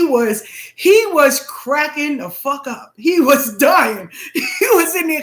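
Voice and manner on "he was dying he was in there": words through a laugh; chuckling as you tell it; real laughter spilling over the line. Real, not acted. Laughing while describing him cracking up.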